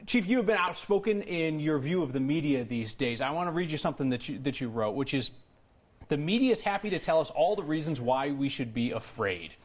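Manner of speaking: numb mouth after dental work; numb from the dentist. Real, not acted. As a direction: speak with half the face numb. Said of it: "I can't feel half my face".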